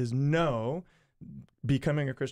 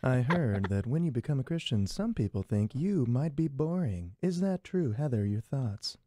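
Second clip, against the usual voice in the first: calm radio announcer voice; mock NPR host read; public radio host. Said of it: "the public radio voice".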